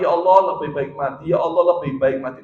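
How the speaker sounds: mock despairing plea. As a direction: play the sick man who begs to die. Mocks the forbidden despairing prayer.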